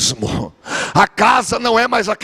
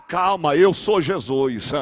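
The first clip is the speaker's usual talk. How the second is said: slow calm reassurance; 3 semitones lower, slower than usual. Acted. Jesus calming Pedro again.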